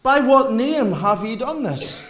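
"name" drawn out with weight, slow question; slow down and lean on "name"; emphatic, deliberate weight on the word "name"; stress on name. Shown as a demonstration. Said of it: "It's upon the name".

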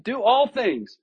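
"all" hit hard in "Do all things"; stress on all. Shown as a demonstration. Pastor stresses the command to the congregation, "all" punched. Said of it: "Notice he says all things".

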